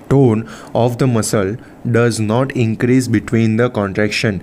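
slow, measured reading of notes; slow textbook read-out. Real, not acted. Teacher reading physiology notes to students, slow and measured. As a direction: read it out slowly, phrase by phrase. Reads lesson text aloud slowly.

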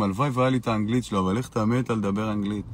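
lightly voiced envious hater; mocking envious haters. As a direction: rattle it off like a jealous hater. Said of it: "בלב הם אומרים".

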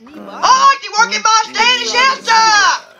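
high-pitched put-on voice, held nearly level; odd bachelor character. Bachelor one answering the host's question, high put-on voice. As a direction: chant it high, stretching the final word.

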